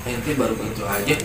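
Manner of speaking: soft calm reply. Retold or imitated. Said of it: "Abdullah Al-Haddad bilang".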